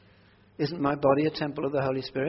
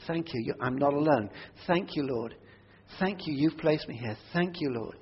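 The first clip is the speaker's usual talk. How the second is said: softer whispered-feeling thanks; quiet thankful prayer. Retold or imitated. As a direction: pray under your breath mid-conversation. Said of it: "I can say".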